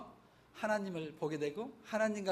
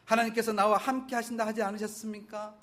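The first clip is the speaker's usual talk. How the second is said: complaint rising to a louder plea; building protest; 2 semitones higher, 6 dB louder than usual. Retold or imitated. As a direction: press God harder with each line, then drop. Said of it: "라고 말합니다".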